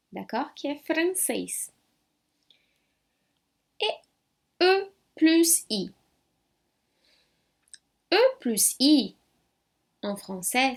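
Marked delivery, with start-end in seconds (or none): 3.8-9.2 "E plus I" slowly, each letter apart; slow spelling. Shown as a demonstration. Teacher spells "E plus I" slowly for class. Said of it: "c'est égal à E também".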